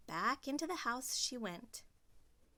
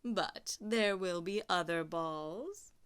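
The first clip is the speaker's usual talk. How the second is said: mock sympathy; 2 semitones lower, slower than usual. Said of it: "with her mocking smile".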